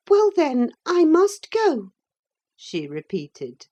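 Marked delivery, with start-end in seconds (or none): 0.1-1.9 put-on resigned girl. A narrator's reading. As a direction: say it unwillingly. Cathy resigned.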